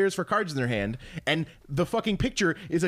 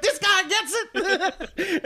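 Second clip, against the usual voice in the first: imitating the stranger; 13 semitones higher, much slower than usual. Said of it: "and he'd be like".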